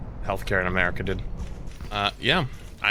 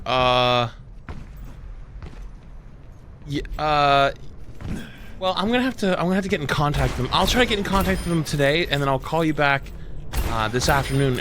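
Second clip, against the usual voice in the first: mock-panicked specialist; 3 semitones higher than usual. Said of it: "clearly a little panicked at this point".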